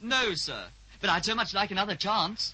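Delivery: imitating Mister Snoodles. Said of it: "that ridiculous, nonsensical voice that Mister Snoodles uses".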